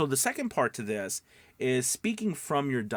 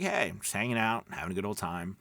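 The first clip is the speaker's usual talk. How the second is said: relaxed laid-back voice; 3 semitones lower, faster than usual. Shown as a demonstration. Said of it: "kinda just relaxing".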